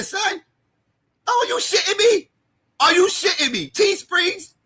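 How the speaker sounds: high-pitched, disbelieving rant; incredulous outrage. Real, not acted. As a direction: call them out in scandalized disbelief. Outraged rant about Teesprings merch.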